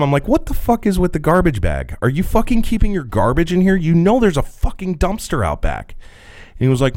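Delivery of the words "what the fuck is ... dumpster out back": higher, exasperated disbelief; incredulous. Retold or imitated. Asking the roommate about the garbage bag, exasperated. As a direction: demand an explanation, baffled.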